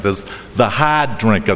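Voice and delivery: Boston accent, "hard" said with no r, like "hahd"; light Boston accent on "hard drinker". Shown as a demonstration. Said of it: "here comes my Boston accent".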